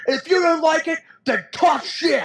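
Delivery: hammed-up Bret telling off the fans; Bret Hart impression. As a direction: sneer it with a laugh breaking through. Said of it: "And he's like".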